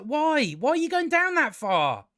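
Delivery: incredulous, high-pitched questioning; exasperated disbelief. Real, not acted. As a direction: demand an answer, voice leaping up. Mock-exasperated question at a character.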